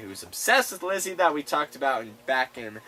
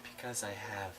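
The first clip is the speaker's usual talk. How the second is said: tender quote. Retold or imitated. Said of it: "you forgot the cute part".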